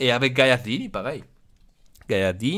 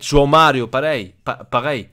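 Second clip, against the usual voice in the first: put-on "João Mario" with an Italian accent, louder; 7 dB louder than usual. Boss calling out the next player, Italian accent. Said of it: "J'ai mis l'accent italien".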